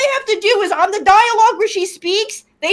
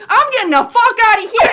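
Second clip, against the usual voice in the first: raised, laughing exclamation; mock urgent cry; 3 semitones higher, 4 dB louder than usual. Player says how the woman should react, mock urgency. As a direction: act out bolting from danger. Acts out own urge to flee.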